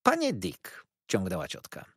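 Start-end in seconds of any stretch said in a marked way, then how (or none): 0.0-0.8 calling Mr Dick. A narrator's reading. Aunt addresses Mr Dick.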